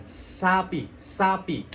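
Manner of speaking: SAPI with a marked hiss on the S. Shown as a demonstration. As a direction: sharpen the first sound of SAPI. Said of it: "Jadi ada desisan".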